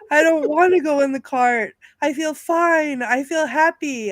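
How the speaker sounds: mock-cheery protest, lifted pitch; quoting the not-dead man. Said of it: "he's saying things like".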